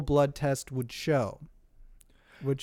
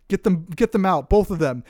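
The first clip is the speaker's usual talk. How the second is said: mock angry order; 3 semitones higher, 6 dB louder than usual. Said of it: "father of the bride stands up and says".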